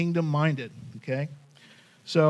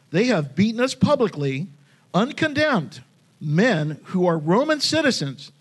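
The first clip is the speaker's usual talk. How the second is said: firm, indignant, uncondemned pitched up high; bold defiant tone; 4 semitones higher, 3 dB louder than usual. Retold or imitated. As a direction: read it like Paul standing his ground. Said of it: "in that tone of voice".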